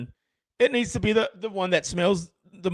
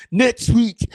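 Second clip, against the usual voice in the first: mock high echo; 8 semitones higher, 8 dB louder than usual. Repeating his line in voices.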